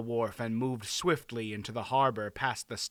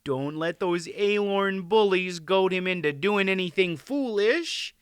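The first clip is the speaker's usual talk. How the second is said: high voice, climbing at the end; anxious high-pitched wife; worried queen; 5 semitones higher, 3 dB louder than usual. A narrator's reading. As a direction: fret over him in a high voice. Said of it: "with a little laugh that quivered a bit".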